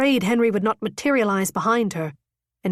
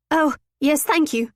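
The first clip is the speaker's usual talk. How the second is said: stammered; 6 semitones higher than usual. A narrator's reading. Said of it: "she stammered".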